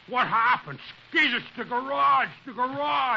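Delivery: loud, alarmed outburst. Acted. Wilmer telling Skeezix about the garage, loud and alarmed. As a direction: blurt it out in shock.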